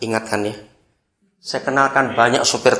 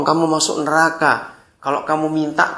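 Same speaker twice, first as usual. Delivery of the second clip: ordinary talk, nothing marked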